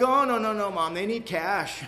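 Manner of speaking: high, loud and hurried, then slowing on they need cash; mock alarm. Son fakes panic on the phone to get cash. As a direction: fake panic to hustle mom for money. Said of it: "And I'm like".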